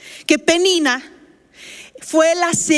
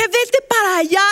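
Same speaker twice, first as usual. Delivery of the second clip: mild mock yell, higher pitched; angry retold yell; 4 semitones higher than usual. Labouring wife ordering husband away, mildly acted angry yell. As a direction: send them off crossly, without real shouting. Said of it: "le grité, me enojé".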